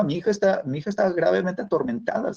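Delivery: retold desperate outcry; imitated crying out. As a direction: voice a mother's cry without really shouting. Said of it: "y ella gritaba".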